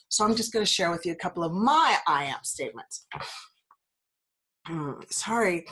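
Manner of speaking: blocked nose, hay fever; congested. Real, not acted. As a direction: speak through a stuffy nose. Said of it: "I sound a little congested".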